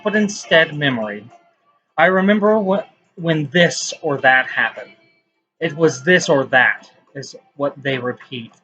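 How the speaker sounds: measured, declaimed poetry reading with pauses between lines; spoken-word recital, lifting at line starts and settling at the ends; poem reading. Acted. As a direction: recite it as your own poem, leaning on key words. Reads own poem aloud.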